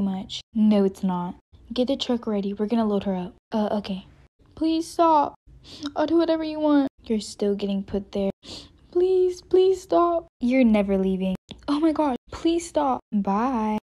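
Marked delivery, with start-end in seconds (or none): 4.5-13.0 high pleading begging; desperate pleading. Acted. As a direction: beg them to stop, voice up high. Girl begging as she's taken.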